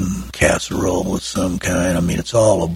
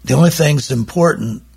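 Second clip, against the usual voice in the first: put-on English accent; 3 semitones higher than usual. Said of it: "you have to imagine the accent".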